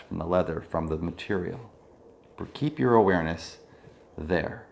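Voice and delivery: calm body-scan guidance with long pauses; measured mindfulness-teacher voice, leaving space between phrases; guided meditation. Real, not acted. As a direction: guide attention through the body, unhurried.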